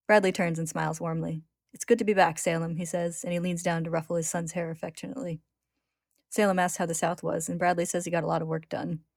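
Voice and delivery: measured read-aloud with lightly voiced dialogue; story narration. A narrator's reading. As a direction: read the tale clearly, lifting the quoted lines.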